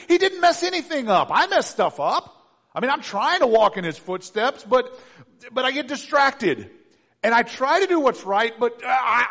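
high, loud, hammed-up protest; mock whining excuses. Good Christian excusing failure to follow Jesus, mock exasperated protest. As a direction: plead your case like a flustered excuse-maker.

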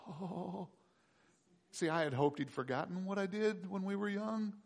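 dismayed Jacob. Acted.

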